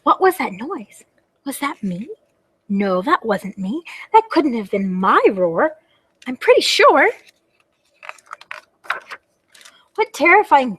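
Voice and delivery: animated storybook wondering, swooping pitch; small dragon putting on bravery; brave little dragon, puzzled. Acted. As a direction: wonder aloud about the mysterious noise. Little dragon hears a noise.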